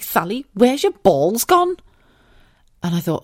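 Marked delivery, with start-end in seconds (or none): 0.0-1.8 friend Bex. Retold or imitated. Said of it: "She's like".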